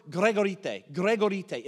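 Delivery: gregorite said slowly, Greek-style, greg-o-ree-tay; Greek word gregorite. Shown as a demonstration. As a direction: sound out gregorite syllable by syllable. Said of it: "It's the Greek word".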